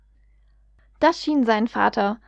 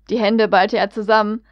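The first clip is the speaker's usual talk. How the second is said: plain reading voice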